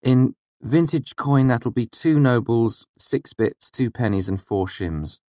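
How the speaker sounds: slow, high merchant tally; slow price recital. Acted. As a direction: read the price out deliberately.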